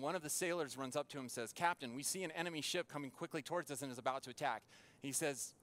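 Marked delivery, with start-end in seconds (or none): 1.5-4.6 mild urgency, rattled off quickly; urgent sailor's report. Retold or imitated. Sailor warns the captain of an enemy ship, urgent. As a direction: report the danger quickly, without shouting.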